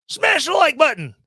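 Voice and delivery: hammed-up hype shout, high and loud; mock YouTuber yell. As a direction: bellow it like an over-the-top YouTuber. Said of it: "No, dude, don't yell at me".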